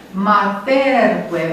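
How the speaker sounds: materque very slow, stress moved to TER; shifted stress. Shown as a demonstration. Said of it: "mi s-a deplasat accentul". (accent mutat pe penultima: ma-TER-que)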